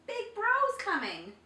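high, loud squawk; squawking parrot. A narrator's reading. Parrot warning the chimpanzee, high loud squawk. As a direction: screech the warning. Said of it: "squawked the parrot".

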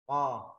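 "Co" thick and loud from the throat. Shown as a demonstration. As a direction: hit "Co" heavy and loud. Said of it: "các bạn đọc dày nha". ("Co" đọc dày, to)

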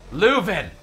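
loud call. Real, not acted. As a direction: shout the name out. Calling out a name.

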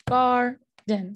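"garden" as two beats, gar, den; split into syllables. Shown as a demonstration. Teacher showing where syllables divide, "garden" in two separate beats. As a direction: break "garden" after "gar". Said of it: "our syllables right there".

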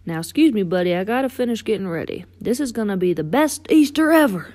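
folksy buddy bubbling with anticipation; excited tow truck character. Acted. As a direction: chatter eagerly, building to a big finish. Voices Mater in story.

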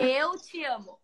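"Eu te amo" slowly, evenly, for the learner; slow repeat. Shown as a demonstration. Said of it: "say that one more time".

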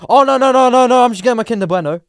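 loud, high, hurried-sounding denial; indignant string of noes; protesting. Retold or imitated. Acted protest at the taunt.

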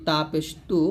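"তা পেশ তু" with a plain Bangla t; easy light "তু". Shown as a demonstration. Teacher showing the easy Bangla letter, light "তু". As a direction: keep the t in "তু" thin and light. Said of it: "সহজ আমরা উচ্চারণ করতে হবে বাংলা দিয়েই".

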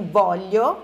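a blunt, demanding voglio; blunt, direct. Shown as a demonstration. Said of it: "pra não ser muito diretão".

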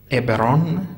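عبران said with a b, ebran; Hebrew variant. Shown as a demonstration. Teacher giving the class the Hebrew form عبران, with a b. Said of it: "تلفظاتی است که در عبری".

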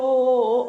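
imitating brother's soothing hum. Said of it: "ഓ, ഓ എന്നുള്ളത് ഞാൻ ഫോണിൽ".

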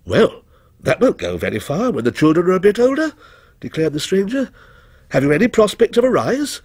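cool, measured stranger; ominous stranger voice. A narrator's reading.

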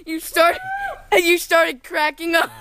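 talking through giggles; laughing. Real, not acted. Laughing at the plunge.

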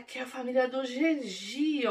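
ordinary talk

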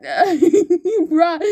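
laughing bruh. Real, not acted. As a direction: laugh through the word. Laughing after the win.

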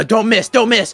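hammed-up fearful plea; nervous pleading. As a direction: beg not to be dropped. Pleading before the scary jump.

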